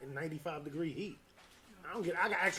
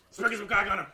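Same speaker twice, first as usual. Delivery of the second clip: Chappelle Show quote; 5 semitones higher, 10 dB louder than usual. Retold or imitated. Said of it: "a Chappelle Show reference".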